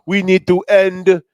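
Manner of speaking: lightly imitating the DJ's speech; a DJ impression. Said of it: "he's talking like".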